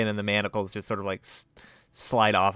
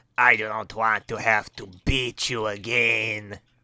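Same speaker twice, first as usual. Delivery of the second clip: offensive, fake, put-on Mexican accent. Voicing a creature that catches the listener rummaging, in an offensive Mexican accent. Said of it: "Sounds like an offensive Mexican accent".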